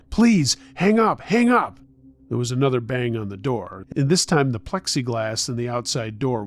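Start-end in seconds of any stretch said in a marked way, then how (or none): 0.1-1.8 high, loud, drawn-out begging; urgent plea. A narrator's reading. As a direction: plead desperately to break into the call. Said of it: "I tried to cut in".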